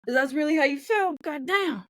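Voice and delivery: exaggerated hurt disbelief; voice of a feeling. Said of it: "they can fucking say some shit that you're like".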